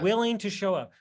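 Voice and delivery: driving the phrase home; stressed repeat. Shown as a demonstration. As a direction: punch Willing, then let it fall. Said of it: "you said it again".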